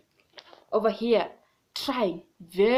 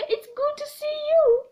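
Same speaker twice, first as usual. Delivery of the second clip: lightly voiced rabbit; 14 semitones higher than usual. Rabbit greets monkey in story.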